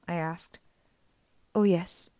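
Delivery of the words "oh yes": whisper. Acted. Auntie Em whispering to Percy about her statues. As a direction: breathe it like a secret.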